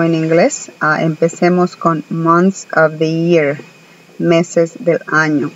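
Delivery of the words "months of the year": months of the year said slowly in English; English pronunciation. Shown as a demonstration. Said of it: "Escuchen la pronunciación".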